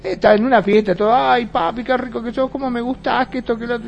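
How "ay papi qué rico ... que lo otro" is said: higher sugary come-on voice, lightly done; mock flirty woman. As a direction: coo at him like a flirt. Imita a una mujer seductora. (mujer coqueta imitada, voz más aguda)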